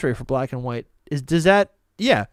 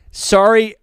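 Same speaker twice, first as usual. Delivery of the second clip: sorry with a Canadian accent, higher and louder; 4 semitones higher, 5 dB louder than usual. Real, not acted. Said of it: "I almost just said it again".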